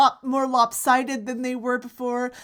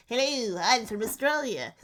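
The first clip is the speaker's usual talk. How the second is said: hammed-up Australian accent; cartoon Australian accent. Shown as a demonstration. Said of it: "all of my accents is based on cartoon".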